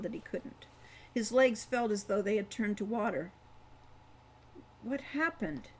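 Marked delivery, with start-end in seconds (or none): 4.8-5.7 breathless. A narrator's reading. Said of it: "he asked breathlessly".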